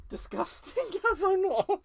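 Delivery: put-on loud, high-pitched Scottish accent; hammed-up Scottish accent, breaking into laughter. Crafter relishing a funny word, Scottish accent. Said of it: "in a Scottish accent".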